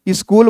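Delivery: "स्कूल" said as "is-kool"; common mispronunciation. Retold or imitated. Teacher quoting how some children say it, "स्कूल" as is-kool. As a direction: start "स्कूल" with a short i sound. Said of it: "लेकिन वो गलत है".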